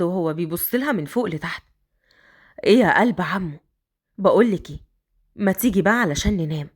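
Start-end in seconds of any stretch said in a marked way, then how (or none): 2.6-6.7 lightly lowered voice for Raad; a man coaxing the girl upstairs; Raad, lower man's voice. Acted. Raad urging the young girl, lightly lowered voice.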